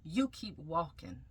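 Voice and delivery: slow, steady and gentle; a calm, unhurried command from above; the voice of God, slow and reassuring. Retold or imitated. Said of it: "And God said".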